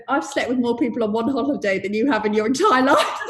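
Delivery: repeating the friend's boast through laughter; laughing quote. Retold or imitated. Friend teasing about limited experience, laughing. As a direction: laugh while quoting her. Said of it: "She went".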